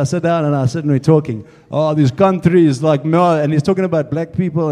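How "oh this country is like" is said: lightly mimicked Russian accent; a hint of Russian accent; Russian-accented mechanic. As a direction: imitate a complaining Russian mechanic. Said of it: "He's got a big Russian voice".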